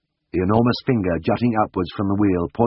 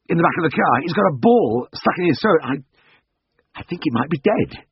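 panicked; 6 semitones higher than usual. Acted. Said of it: "His voice was breathless, panic-stricken".

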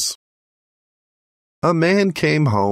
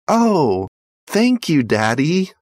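put-on high, delighted little boy; excited yell; 8 semitones higher than usual. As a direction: cry out with joy like a child. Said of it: "he yelled".

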